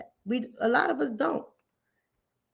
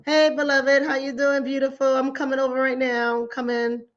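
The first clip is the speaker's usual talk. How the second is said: gentle welcome. Retold or imitated. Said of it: "I'm not doing all of that".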